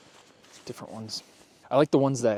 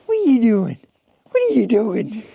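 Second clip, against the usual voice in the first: louder, higher call across the yard; 6 semitones higher, 6 dB louder than usual. Real, not acted. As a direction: call the dog from afar. Calling the dog in snow.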